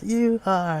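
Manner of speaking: high, loud strained cry of surrender; mock scream. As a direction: scream it as a cornered victim, hammed up. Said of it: "He, like, screams".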